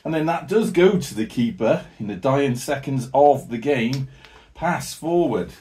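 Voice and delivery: running match commentary, lively and quick; live play-by-play. Acted. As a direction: call the game as it unfolds.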